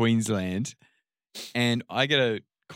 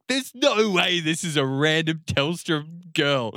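mock disbelief; 5 semitones higher than usual. Disbelieving foreman, retold.

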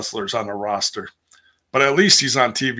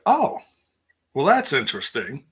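mock surprise; 3 semitones higher than usual. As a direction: feign intrigued surprise. Reacting to a rumour read online.

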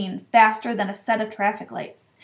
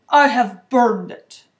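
loud, slow, final statement; dismissive, weighty pronouncement; shortly; 8 dB louder, slower than usual. A narrator's reading. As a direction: close the matter word by word. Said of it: "said Uncle Vernon shortly".

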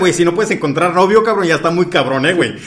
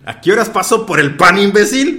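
louder, playful pretend girlfriend; 4 semitones higher, 5 dB louder than usual. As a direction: tease the suitor back, hammed up. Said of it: "Voy a hacer acento mío". (novia fingida, burlona y más fuerte)

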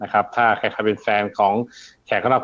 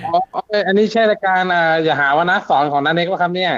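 higher, eager call-in listener voice; excited radio caller; 5 semitones higher than usual. Pretend. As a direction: play a thrilled caller who finally got through. Continues the caller bit.

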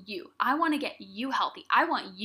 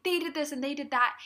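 mock kid's complaint, pitched higher; complaining; 4 semitones higher than usual. Kid complaining to parents about another kid, imitated complaint. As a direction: imitate a child griping, voice raised in pitch. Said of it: "I'd be complaining".

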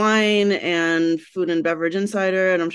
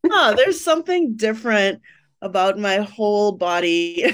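puzzled realization; 3 semitones higher than usual. Retold or imitated. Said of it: "So I was like".

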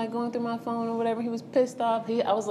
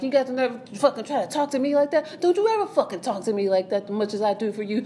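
mimicked furious rant at his girlfriend, pitched up; imitating angry boyfriend; 4 semitones higher than usual. Boyfriend yelling at her in the car, mock angry. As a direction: replay the boyfriend's tirade with heat.

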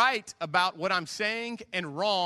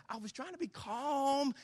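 higher, slow, mock-crying whine; whiny protest; 9 semitones higher, 5 dB quieter than usual. Husband whines to wife in the car, mock-crying and slow. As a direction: whimper it like a wounded husband.

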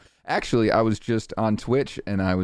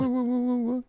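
very high stuttered whats; stammering high what. Pretend. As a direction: squeak out the whats. Echoing the stammer bit.

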